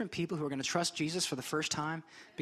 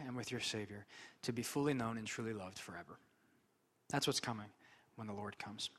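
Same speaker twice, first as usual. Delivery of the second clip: soft reverent preaching; 5 semitones lower, 6 dB quieter than usual. Acted. Soft, slow, reverent opening passage.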